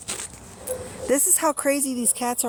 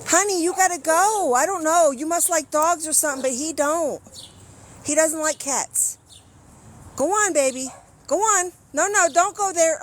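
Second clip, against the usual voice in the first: coaxing the cat; 5 semitones higher than usual. Real, not acted.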